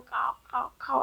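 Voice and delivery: softly imitated cawing, repeated; lightly voiced crow cries; mock crow caws. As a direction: give little caws of a falling crow.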